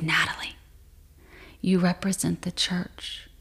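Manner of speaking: soft, calming voice of God; quieting God. Retold or imitated. God quiets the sobbing woman, soft and calming. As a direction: settle the listener down, hushed and measured. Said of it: "God quieted me".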